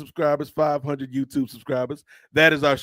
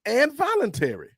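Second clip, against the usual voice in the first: puzzled higher questioning voice; a viewer asking in disbelief; imagined listener; 6 semitones higher than usual. Retold or imitated. Listener quizzing host, mildly incredulous. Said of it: "you may be thinking to yourself".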